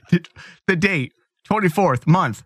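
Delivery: staccato. Retold or imitated. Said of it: "reading one word at a time".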